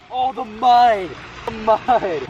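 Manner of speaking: high, excited cry about the mud. Real, not acted. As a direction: squeal it out, high. Brother jumping into cold pond.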